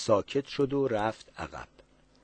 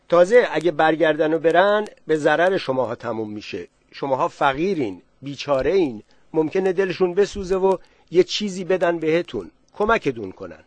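sly stranger; 4 semitones higher, 5 dB louder than usual. Acted. Black man persuading villagers.

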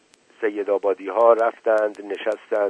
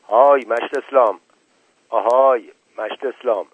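loud, high call across the yard; 3 semitones higher, 7 dB louder than usual. A narrator's reading. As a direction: holler his name to reach him.

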